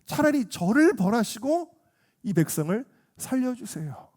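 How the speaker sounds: pleading with God, pitch lifted; acted heartfelt intercession; earnest prayer. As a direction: pray imploringly in Moses' place. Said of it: "이 마음을 가지고 간절하게 기도할".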